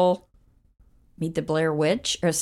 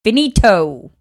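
playful Italian; 4 semitones higher, 9 dB louder, slower than usual. Pretend.

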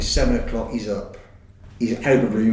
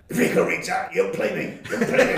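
laughing quote; 6 semitones higher than usual. Retold or imitated. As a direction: voice climbing high through giggles. Teammate's excited quote, laughing.

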